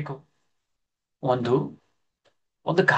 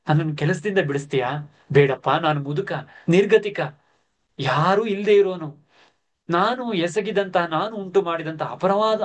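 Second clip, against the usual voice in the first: humble pleading. Acted. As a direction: beg meekly for mercy. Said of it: "ದೈನ್ಯದಿಂದ ಅತ್ಯಂತ ದೀನನಾಗಿ". (ದೈನ್ಯದಿಂದ ಬೇಡುವ ಮುದುಕ)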